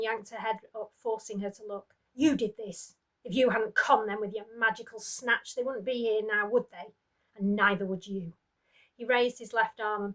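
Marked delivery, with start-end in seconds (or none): 2.1-8.3 angry berating. Acted. Husband berating his captive wife.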